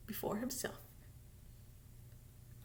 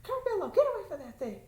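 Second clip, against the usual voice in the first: scolding call; 6 semitones higher, faster than usual. Real, not acted. Calling off someone off-camera.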